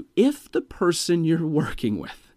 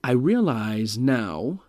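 slowed down; slower than usual. Shown as a demonstration. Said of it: "you slow yourself down".

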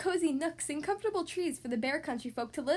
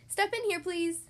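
doctor's voice; 5 semitones higher than usual. Acted. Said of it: "said Doctor Grizzly".

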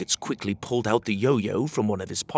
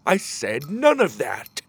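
slow, raised guard voice; guard warning; 4 semitones higher, 4 dB louder, slower than usual. Acted. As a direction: call out a stern warning, drawn out. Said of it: "called the guard".

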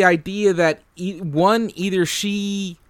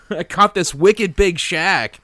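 mock Boston accent. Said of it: "has a Boston accent".

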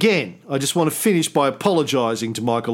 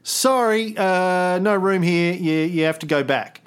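mock British official; 4 semitones higher than usual.

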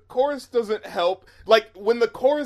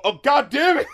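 sudden realization; 6 semitones higher, 4 dB louder than usual. Real, not acted. Realizing the Pol Pot reference.

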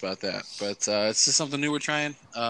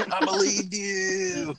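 laughing through the words; words squeezed out while laughing; 10 semitones higher, 4 dB louder, much slower than usual. Real, not acted. Laughing at friend's betrayal.

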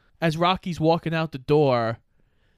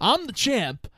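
laughing mock champ; 7 semitones higher, slower than usual. Mocking Apollo, laughing.

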